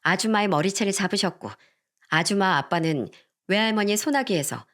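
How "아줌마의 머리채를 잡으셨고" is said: ordinary delivery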